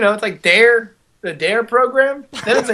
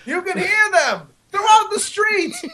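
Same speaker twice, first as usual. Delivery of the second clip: mock epic narrator; 13 semitones higher than usual.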